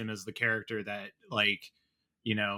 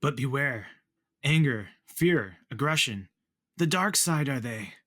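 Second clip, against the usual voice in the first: Yoda voice; 3 semitones higher than usual. Acted. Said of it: "Great delivery".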